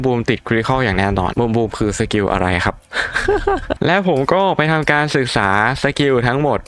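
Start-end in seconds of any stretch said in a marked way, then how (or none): 2.8-3.8 short high-pitched giggle; high squeaky laugh. Real, not acted. Gamer laughing at own joke about Boom Boom, high squeaky giggle. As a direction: squeak out a quick laugh at yourself.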